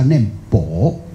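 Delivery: 念薄 spoken slowly, stressing 薄. Shown as a demonstration. Teaching disciples how to read the word, slow and deliberate. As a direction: slowly spell out the reading 薄. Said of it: "就是要念薄".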